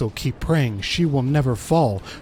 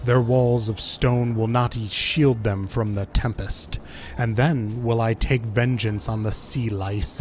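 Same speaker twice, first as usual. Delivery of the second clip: understated villain monologue, imperious; lightly voiced tyrant god; 4 semitones lower, 3 dB quieter than usual. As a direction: declare it like a cruel god-queen, a touch lower. Voices the boss's dialogue.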